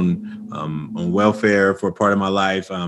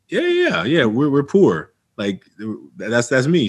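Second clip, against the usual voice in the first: put-on dismissive teen; 3 semitones higher than usual. Teen self brushing off counselor.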